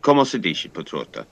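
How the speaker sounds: a fond father's Sicilian greeting, fading; Italian phrase on request. Shown as a demonstration. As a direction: say Come si dice, Piciotta like the father did. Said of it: "you say it again".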